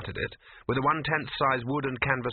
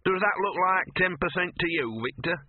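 scruffy dog voice; 8 semitones higher than usual. Acted. Gaspode's haggling dog voice.

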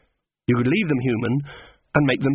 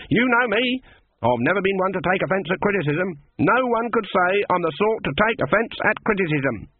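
indignant protest; 7 semitones higher than usual. A narrator's reading. Granny protests too much.

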